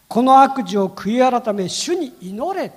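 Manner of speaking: slow solemn command. Retold or imitated. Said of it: "こう言ってますね".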